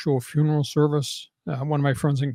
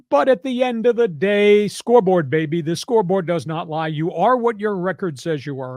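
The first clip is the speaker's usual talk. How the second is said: raised, emphatic sports sermon; preaching; 3 semitones higher than usual. Real, not acted. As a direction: preach it to the doubters. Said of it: "End, end of my statement and preach".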